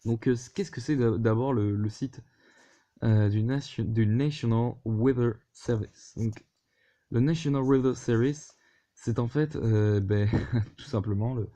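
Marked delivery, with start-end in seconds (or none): 4.1-6.1 English name in a French accent; French speaker attempting English mid-sentence. Real, not acted. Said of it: "avec mon magnifique accent anglais". 7.2-8.6 English name in a French accent; French speaker attempting English mid-sentence. Real, not acted. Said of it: "avec mon magnifique accent anglais".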